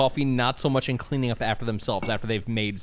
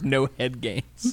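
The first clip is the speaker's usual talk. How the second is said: dying man voice; much slower than usual. Retold or imitated. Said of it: "last words".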